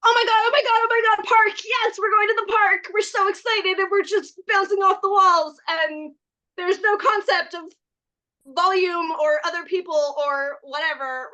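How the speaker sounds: put-on high, loud, bouncing child's squeal; overexcited small child. Small child promised the park, high and loud with glee. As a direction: gush like a kid hearing "park". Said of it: "So imagine a small child that's like".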